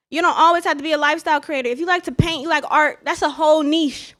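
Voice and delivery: talking while chewing gum. Real, not acted. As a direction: say it around a piece of gum. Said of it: "Sorry, y'all got gum in my mouth".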